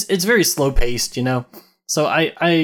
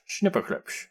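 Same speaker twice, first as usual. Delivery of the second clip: whispered; 5 semitones higher, 7 dB quieter, slower than usual. Pretend. Whispered title repeat.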